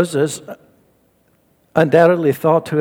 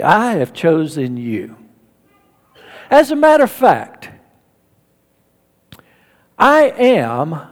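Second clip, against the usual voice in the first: God's voice from the bush, low and much softer; 6 semitones lower, 4 dB quieter than usual. Retold or imitated. God calls Moses from the bush, low and hushed. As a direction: speak like a solemn, hushed divine voice. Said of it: "the voice from the bush says".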